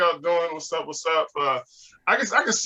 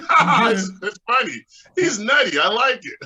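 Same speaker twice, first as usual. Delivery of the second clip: laughing audience member; 4 semitones higher, 5 dB louder than usual. Retold or imitated. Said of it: "Other people are like".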